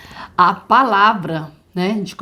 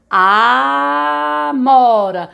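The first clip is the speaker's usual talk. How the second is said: very slow word; 4 semitones higher, 5 dB louder, much slower than usual. Shown as a demonstration. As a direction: stretch out amora slowly, syllable by syllable. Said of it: "vamos falar devagar a palavra". (Amora bem devagar, sílaba por sílaba)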